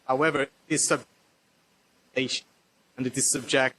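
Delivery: audio cutting in and out; choppy video-call line; corrupted glitchy audio. Real, not acted. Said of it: "I'm losing, like, fifty percent of the audio".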